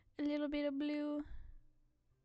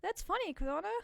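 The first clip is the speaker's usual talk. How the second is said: mock laugh; 8 semitones higher, 3 dB louder than usual. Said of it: "you're supposed to go".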